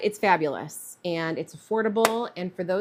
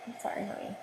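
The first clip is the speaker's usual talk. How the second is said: pet talk; 4 semitones higher, faster than usual. Real, not acted. To her annoyed cat during the heat gun, tender coo.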